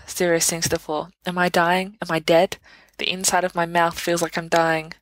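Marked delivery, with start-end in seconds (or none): 1.3-4.9 spiral into hammed-up panic; hysterical. Sirius on the floor to his friends, mock-hysterical panic. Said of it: "you're hysterical".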